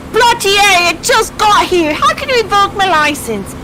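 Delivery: mock outrage. Outraged at revoked license.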